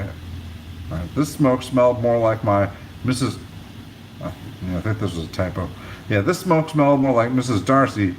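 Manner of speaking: steady read-aloud narration of a novel; audiobook-style reading voice; story narration. A narrator's reading. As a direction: tell the chapter to listeners. Reads chapter aloud.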